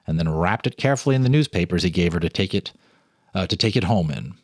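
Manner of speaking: calm, measured storyteller reading; story narration. A narrator's reading. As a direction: read it like a ghost story by lamplight. Reads ghost story aloud.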